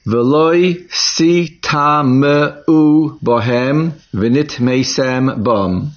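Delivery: slow, deliberate reading of the verse. Shown as a demonstration. Teacher reads the verse to students, slow and deliberate. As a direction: read each Hebrew word out slowly. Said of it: "Pasuk Mem Gimel states".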